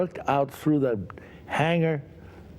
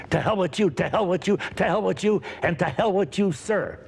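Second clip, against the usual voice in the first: shouting back; 6 semitones higher, faster than usual. Retold or imitated. Actor shouts back at director.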